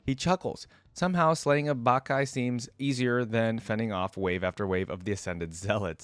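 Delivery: steady storybook reading voice; story narration. A narrator's reading. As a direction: narrate the battle evenly.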